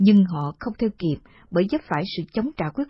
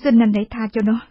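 higher, desperate begging; pleading; 3 semitones higher, 4 dB louder, faster than usual. Acted. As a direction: beg him to spare her daughter. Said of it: "Thì khẩn nài".

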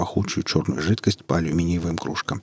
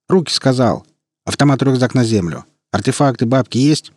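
louder, higher gopnik demand; russian street thug; 5 semitones higher, 4 dB louder than usual. Acted. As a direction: bark demands like a street punk. Young thug demands loot.

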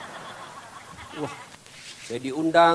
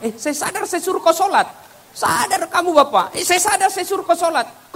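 exasperated husband; 12 semitones higher than usual. Acted. Husband argues with wife about prayer.

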